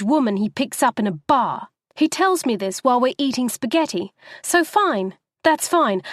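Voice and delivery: winding herself up line by line; fury building with every word. Acted. Wife ranting to taxi driver about husband, building fury. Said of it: "becoming more exhilarated with fury with every word".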